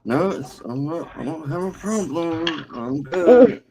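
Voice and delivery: high, hammed-up "nothing's wrong"; passive-aggressive denial. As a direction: imitate someone insisting they're fine. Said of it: "passive aggressive and not saying what they mean".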